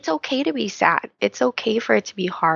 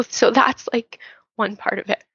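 tearful whisper. Real, not acted. Finishing the first point to listeners, whispering through tears. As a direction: wrap up the point while still crying. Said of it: "I know I'm crying now".

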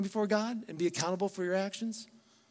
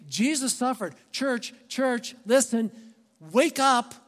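urgent Peter; 3 semitones higher than usual. Retold or imitated. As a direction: rouse the church like Peter calling them awake. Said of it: "Peter's like".

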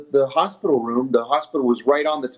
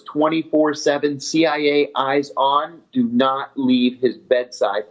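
slow deliberate order; slower than usual. Retold or imitated. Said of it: "these were his exact words".

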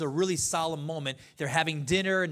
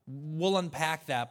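ordinary delivery

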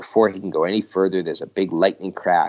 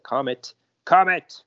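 rising, louder cry for help; panicked call; 8 semitones higher, 5 dB louder than usual. Acted. Dox falling, yelling for Comet, panicked. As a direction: yell for rescue while falling.

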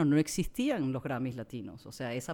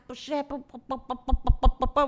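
mock bleeped swearing; 10 semitones higher, 8 dB louder than usual. Bleeped-out insults, se podrán imaginar.

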